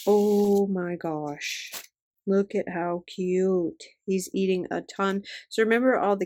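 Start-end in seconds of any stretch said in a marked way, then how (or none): 0.1-3.8 long drawn-out, slow gushing; slow, awestruck gush; delighted awe. Real, not acted. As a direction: stretch it out in adoring amazement. Delighted reaction to stickers.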